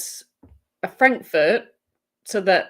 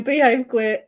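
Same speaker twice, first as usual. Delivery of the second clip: mock scolding; 4 semitones higher, 3 dB louder than usual. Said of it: "sorry, I'm yelling".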